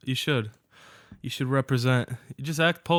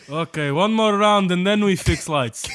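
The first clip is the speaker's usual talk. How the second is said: put-on Russian accent; 4 semitones higher than usual. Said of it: "Where this just Russian accent".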